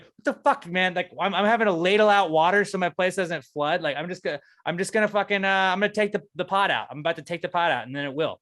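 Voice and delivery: high, loud furious rant; furious yelling. Retold or imitated. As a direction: scream it at him, fed up. Yelling at the manager on phone.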